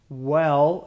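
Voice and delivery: "well" isolated after a long pause, lifted at the end; stress on well. Shown as a demonstration. Teacher going through the qualifications, stress on "well". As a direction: land firmly on "well" by itself. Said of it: "again, the emphasis here is on well".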